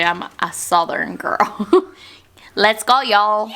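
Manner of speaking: playful put-on Southern accent; hammed-up Southern girl, calling out the last words. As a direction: lay on a mock Southern twang. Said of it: "That was my best accent".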